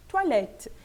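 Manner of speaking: "toilette" as twa-lèt, open last vowel. Shown as a demonstration. Teacher concluding the rule with the example, open E. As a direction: stress open -lette in "toilette". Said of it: "faz parte dessa relação de E aberto".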